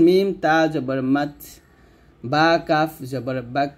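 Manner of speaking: "মাত" and "বাক" ending in a puff of air; hams, breath released. Shown as a demonstration. Teacher gives further examples, "মাত" and "বাক" with breathy endings. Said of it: "এরকম আর কি আপনি বলতে পারেন".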